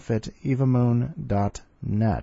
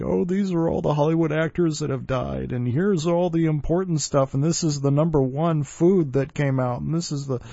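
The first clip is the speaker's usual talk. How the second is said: mock year-end countdown; 5 semitones higher than usual.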